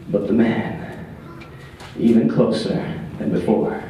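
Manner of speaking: low, hushed and ominous. A narrator's reading. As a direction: drop low for the creepy reveal. Ominous reveal of the stranger.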